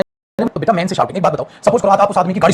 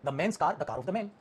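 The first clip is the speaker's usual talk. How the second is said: slow dictation; 3 semitones lower, 15 dB quieter, much slower than usual. Shown as a demonstration. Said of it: "dictating the sentence".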